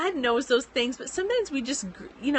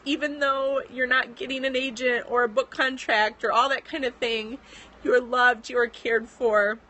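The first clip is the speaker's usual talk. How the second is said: tearful. Real, not acted.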